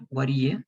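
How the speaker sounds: "What do you" linked, T softened; second form, contracted. Shown as a demonstration. Teacher modeling for repetition, contracted. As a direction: say "What do you" as one word. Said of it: "Let's practice only the second form".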